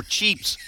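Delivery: "Cheeps" with a long ee for "chips"; mock Spanish accent. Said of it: "in an accent".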